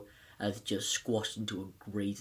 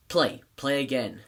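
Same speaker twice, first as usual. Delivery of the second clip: firm, louder retold order; punched-out mock command; 6 dB louder than usual. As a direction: imitate a commanding band teacher. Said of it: "starts to get more commanding".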